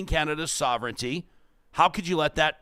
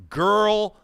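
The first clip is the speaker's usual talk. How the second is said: mocking a billionaire's put-down; snarky mock quote. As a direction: read it out as a taunt. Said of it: "Replies Elon Musk to the Prime Minister".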